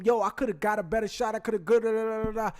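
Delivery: popping off. Retold or imitated. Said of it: "pops off about him".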